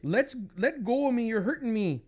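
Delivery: high acted protest; distressed wife. Wife pleads with drunk husband, high distress.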